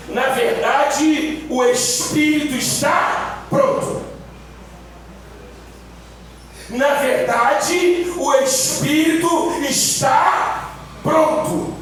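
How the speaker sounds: "Na verdade" and "Espírito" drawn out very slowly; emphatic recitation. Shown as a demonstration. Preacher repeats the verse for congregation, emphatic slow stretching of "Na verdade". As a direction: stretch "Na verdade", lean on "está pronto". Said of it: "Eu vou repetir".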